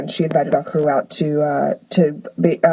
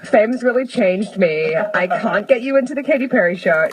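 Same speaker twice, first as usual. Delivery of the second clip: higher, drawn-out mock star refusal; mock diva; 4 semitones higher, slower than usual. Singer to friends begging for tickets, mock self-important. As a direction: play the star too famous to help.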